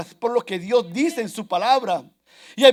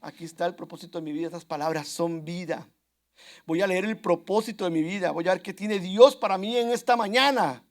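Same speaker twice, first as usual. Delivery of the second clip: devoted reader; 5 semitones lower, 4 dB quieter than usual. Pretend. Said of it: "Cuando usted dice".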